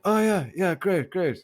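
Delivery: high, sing-song fake agreement; mock enthusiasm. Friend mimicking co-host's distracted agreement, high mock enthusiasm. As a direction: mimic a half-listening yes-man. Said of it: "And you're like".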